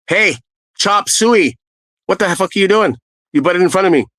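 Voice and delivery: high, pushy mock shout; imitating an angry guy cutting off another; angry retold yell. Guy yelling at the man who cut in, high angry shout.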